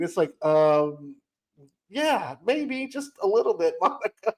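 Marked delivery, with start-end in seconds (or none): 1.9-4.3 sarcastic understatement. Real, not acted. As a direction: tease the character, laughing. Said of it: "sarcastic aside to Monica".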